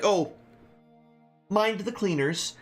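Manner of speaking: a hint of a doddering old man. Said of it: "he's like".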